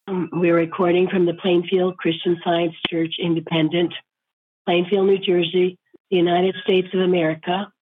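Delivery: thin squeaky voice from a sore throat. Real, not acted. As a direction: speak through a squeaky, strained throat. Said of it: "excuse my squeaky voice".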